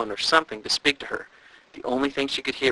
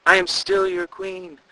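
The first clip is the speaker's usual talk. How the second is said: very high, slow call fading softer; fading away; slower than usual. A narrator's reading. The queen's ghost fading out, slow, dying away. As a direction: let the voice drift away to nothing. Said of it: "the voice grew softer and softer".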